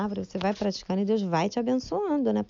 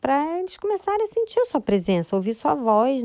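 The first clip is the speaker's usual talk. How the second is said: retold prayer; 2 semitones higher than usual. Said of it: "falei assim".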